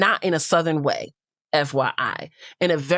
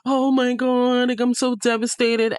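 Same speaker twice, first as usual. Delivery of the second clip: hammed-up higher victim voice; mock victim act; 7 semitones higher than usual. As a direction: mimic a whiny pretend victim. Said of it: "Kenzie likes to put on this victim".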